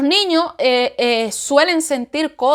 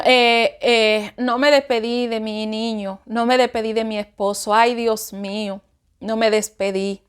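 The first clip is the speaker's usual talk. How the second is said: sorrowful lament; 4 semitones lower than usual. Retold or imitated. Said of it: "yo dije".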